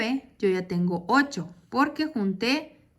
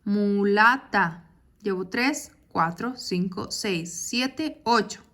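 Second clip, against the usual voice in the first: counting syllables; slower than usual. Shown as a demonstration. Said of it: "ahora tengo ocho".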